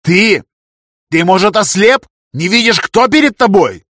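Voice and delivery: high, loud indignant roar; an official thundering at an insolent guard. A narrator's reading. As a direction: boom it out at the guard. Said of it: "громыхнул сильным голосом".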